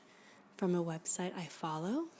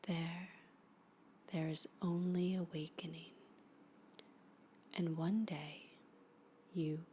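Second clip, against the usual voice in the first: hushed poetry reading. Acted. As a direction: read each line like a guided meditation, letting it settle. Reads a poem aloud, hushed and slow.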